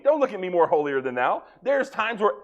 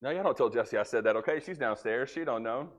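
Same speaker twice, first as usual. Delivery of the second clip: hushed aside; 6 semitones lower, 9 dB quieter than usual. Real, not acted. Aside about wife downstairs.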